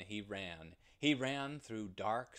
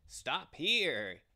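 loud, higher coaxing call; evil one disguised as grass; 4 semitones higher, 7 dB louder than usual. Acted. The grass-disguised evil one calls to the ram, loud and coaxing. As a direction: lure him to stop. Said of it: "he said".

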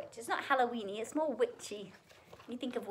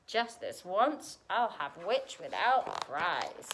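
gloating dragon; 3 dB louder, much slower than usual. A narrator's reading. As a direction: savour each word as a hungry dragon. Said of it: "with a glint in his eyes".

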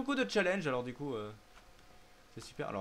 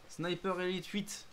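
slow, higher dramatic title voice; movie trailer voice; 6 semitones higher, slower than usual. Pretend. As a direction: announce it like a trailer. Repeats the game title.

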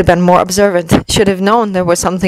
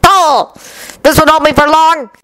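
snarling; 9 semitones higher than usual. A narrator's reading. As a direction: spit it out in rage. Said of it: "he snarled".

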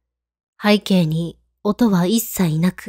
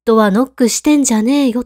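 angry; 3 semitones higher than usual. Retold or imitated. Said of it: "と反論します".

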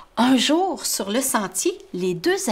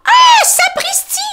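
very high, slow, loud amazed exclamation; astonished Tom; 9 dB louder than usual. Acted. Tom seeing the rabbit appear, high slow astonishment. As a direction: gasp it out in wonder.

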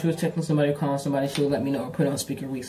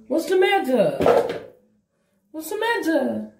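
high slow pet talk; 12 semitones higher, 5 dB louder, slower than usual. Real, not acted. Asking her cat what is wrong, high and slow. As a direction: coo slowly up high at the cat.

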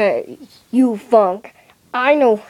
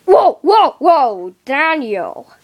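amazed; slower than usual. Acted. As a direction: gasp in astonishment. Amazed at Daniel.

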